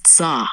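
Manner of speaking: "Tsa" as one crisp, short syllable; "Tsa" neat and brief; short and precise. Shown as a demonstration. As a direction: say "Tsa" precisely, with a sharp ts onset. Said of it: "Short and precise".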